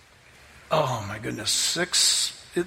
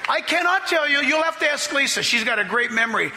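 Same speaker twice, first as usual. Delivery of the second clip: excited laughing; 8 semitones higher than usual. Real, not acted. Preacher laughing to the congregation about the toasts, excited. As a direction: laugh it out, can't believe it happened. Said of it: "I'm serious".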